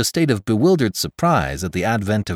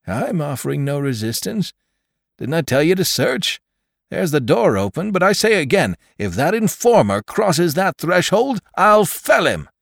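furious threat; 10 semitones higher, 4 dB louder than usual. A narrator's reading. Jones shouting his threat.

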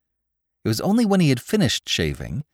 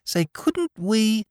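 put-on Bowery boy voice; 14 semitones higher, much slower than usual. Spike slow, hinting.

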